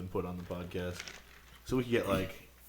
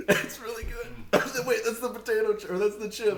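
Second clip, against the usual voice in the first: burning mouth; 10 semitones higher than usual. Real, not acted. Burning from hot salsa.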